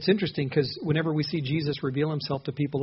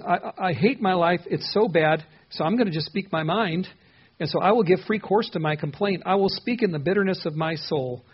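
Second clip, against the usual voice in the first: voicing Job's lament, somewhat raised in pitch; impassioned complaint; 3 semitones higher, 4 dB louder than usual. Preacher paraphrasing Job's bitter complaint to the congregation, impassioned. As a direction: air a grievance with rising insistence.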